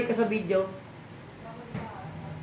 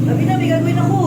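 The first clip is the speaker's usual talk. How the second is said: louder, higher insistence; higher, louder, rising at the end; insistent repeat; 6 semitones higher, 5 dB louder, faster than usual. Real, not acted. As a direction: raise the voice to insist. Repeats the telling more insistently.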